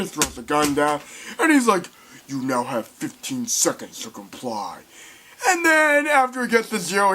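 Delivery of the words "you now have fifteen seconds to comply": robot warning. Retold or imitated.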